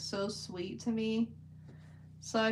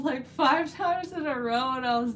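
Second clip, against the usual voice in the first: laughing; 4 semitones higher, 6 dB louder than usual. Real, not acted. Laughing at funny video.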